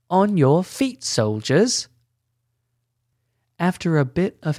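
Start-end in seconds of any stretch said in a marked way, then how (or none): 0.1-1.9 repeated command. Acted. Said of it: "I said".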